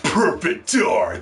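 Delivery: stretched-out imitation of the title reveal; drawn-out title. Same title repeated for effect.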